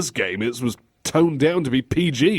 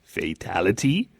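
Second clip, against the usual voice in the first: mocking, questioning FATALITY; question mark; 5 semitones lower than usual. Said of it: "like fatality with a question mark on it".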